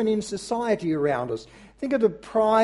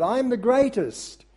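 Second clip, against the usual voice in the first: higher, lightly American boast; mild American accent, pitched up and proud; 6 semitones higher than usual. Retold or imitated. Preacher retrying Muhammad Ali's boast in a mild American accent. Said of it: "my American accent leaves a bit to be desired".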